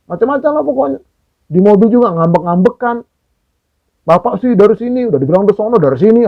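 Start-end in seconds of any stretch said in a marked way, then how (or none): 4.0-6.3 a hint of a wife grumbling, lightly voiced; half-hearted scolding tone, blaming the husband; mock nagging. Wife nags husband about the route taken, mild mock grumbling. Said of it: "ngomel aja".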